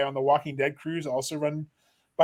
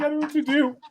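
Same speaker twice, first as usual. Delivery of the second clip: mock panic; 10 semitones higher, faster than usual. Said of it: "I was like".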